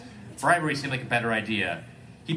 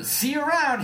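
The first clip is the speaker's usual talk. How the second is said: announced; 3 dB louder than usual. Acted. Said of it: "he announced".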